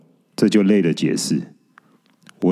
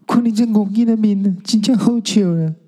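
catching breath after laughing; 11 semitones higher than usual. Acted. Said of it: "喘了口气说".

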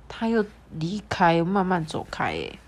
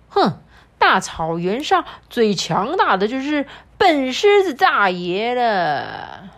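proud lion voice; 4 semitones higher, 4 dB louder, slower than usual. Acted. Lion boasts in story.

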